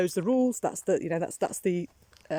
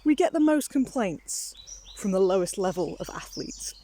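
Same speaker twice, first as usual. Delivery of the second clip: lightly voiced Toby. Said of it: "He said".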